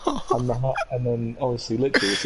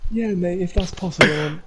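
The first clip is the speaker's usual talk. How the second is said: higher, eager agreeing voice; eager coach; 4 semitones higher than usual. Retold or imitated. Coach eagerly agreeing with Keane, higher voice. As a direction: overeager yes, pitched high.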